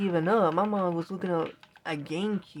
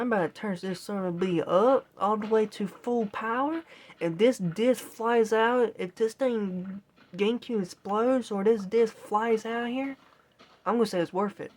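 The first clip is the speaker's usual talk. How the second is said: getting mad; 3 semitones higher, 3 dB louder than usual. Retold or imitated. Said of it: "I was getting mad".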